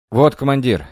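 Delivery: smug, pleased with himself; smug smile. Acted. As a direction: say it with a smug grin. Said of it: "с самодовольной улыбкой".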